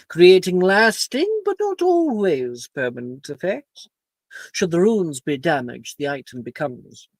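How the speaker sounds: lightly voiced stern teacher; strict professor lecturing.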